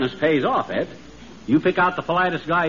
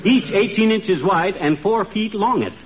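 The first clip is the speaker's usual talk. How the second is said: hammy stage actor; 4 semitones higher than usual. Acted. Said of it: "the way Sir Walter Raleigh talks".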